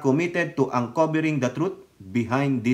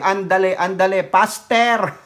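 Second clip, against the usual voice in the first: louder teasing "andale, andale, faster!"; mock hurry-up cry; 3 semitones higher, 4 dB louder than usual. Teasing the agency to rush, mock hurry-up cry. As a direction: hurry them along like a cartoon boss. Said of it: "Kumbaga sabi".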